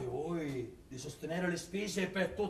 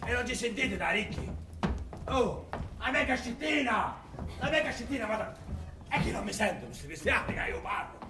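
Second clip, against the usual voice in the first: despairing lament; 6 semitones higher than usual. Acted. Miser despairs over his casket.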